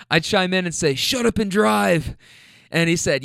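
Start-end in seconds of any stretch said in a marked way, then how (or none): 0.9-2.2 slow, higher playful order; mock command. Rider chiming in on robbery joke, mock slow order. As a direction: play a joking getaway demand.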